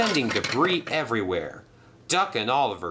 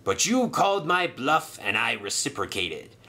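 smooth villain; 3 semitones higher than usual. Acted. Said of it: "said Sailor John smoothly".

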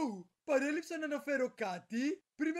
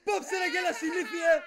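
angry scolding; 3 semitones higher, 5 dB louder than usual. Acted. Scolding partner.

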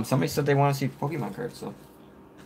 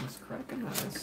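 squeaky high, very soft try at Welsh; attempted Welsh accent; 14 semitones higher, 14 dB quieter than usual. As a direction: squeak the line back as a failed Welsh. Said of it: "That's Scottish".

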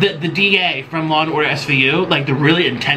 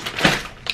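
dramatic gasp; 6 dB quieter than usual. Real, not acted. Dramatic reaction while showing noodles.

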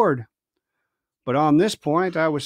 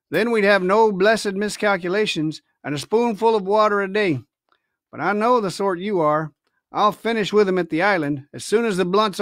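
scornful pirate captain; 3 semitones higher than usual. Acted. Silver scolding crew.

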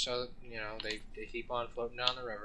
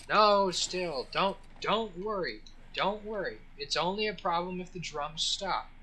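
higher, slow hammed-up reassurance; mock calm guide; 7 semitones higher, 4 dB louder than usual. River guide calming tourists, higher hammed-up reassurance. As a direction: play a guide soothing panicked tourists. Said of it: "And he says".

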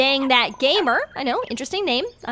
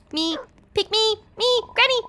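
eager begging; 8 semitones higher than usual. Acted. Dog begging to be chosen.

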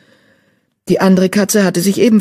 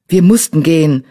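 hissed; 5 dB louder than usual. Acted. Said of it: "zischte Brombeerkralle".

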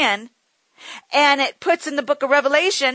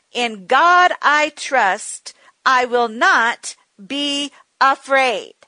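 slow, deliberate confession of faith; measured, deliberate declaration; slower than usual. Shown as a demonstration. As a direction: say each word slowly as a vow. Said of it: "I think you should say that right now".

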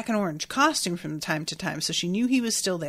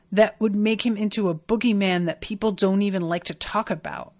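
mildly exasperated scolding; irritated. Real, not acted. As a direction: take the character to task, ending in an incredulous question. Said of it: "I honestly was so irritated with".

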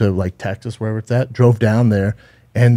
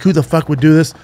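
higher, mock-angry demand; moderately acted anger, pitched up; retold furious dad; 5 semitones higher, 4 dB louder than usual. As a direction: imitate an outraged father demanding answers. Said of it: "He's furious".

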